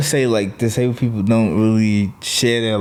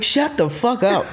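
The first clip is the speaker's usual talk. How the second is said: retold yell; 11 semitones higher than usual. Comedian retelling his outburst at the older woman, mock yell. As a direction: re-enact a yell at a heckler without full volume. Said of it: "And I yelled".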